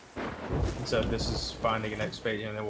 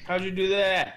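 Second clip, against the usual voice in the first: amazed; 8 semitones higher, 6 dB louder than usual. Real, not acted. Amazed at teammate.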